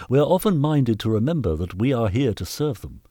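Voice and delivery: lightly voiced, eager-to-please master; a touch of officious earnestness; workhouse master. Master reporting improvements to the knight, lightly officious.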